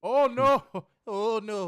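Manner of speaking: high, loud oh no; shocked. Real, not acted. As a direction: react in disbelief. Shocked reaction.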